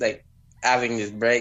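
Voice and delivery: ordinary talk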